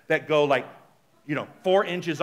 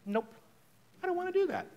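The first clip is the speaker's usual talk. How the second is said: firm refusal; 13 semitones higher, 5 dB quieter than usual. Shown as a demonstration. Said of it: "Just say".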